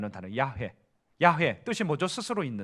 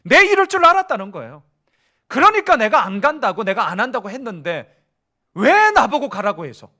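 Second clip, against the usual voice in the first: higher, louder sulky protest to God; Jonah's complaint; 4 semitones higher, 7 dB louder than usual. Acted. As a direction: whine at God that you knew it all along. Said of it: "이 긴 말을 줄이면". (요나가 하나님께 높고 크게 투덜대며 항의)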